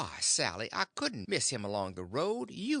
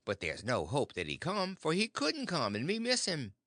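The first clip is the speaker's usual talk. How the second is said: mild scared husband; 3 semitones higher than usual. Acted. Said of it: "I'm right down scared".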